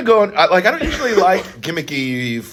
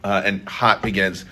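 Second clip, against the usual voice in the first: slow dramatic pronouncement; 7 semitones lower, 5 dB quieter, slower than usual. Acted. Solemn verdict on the heat.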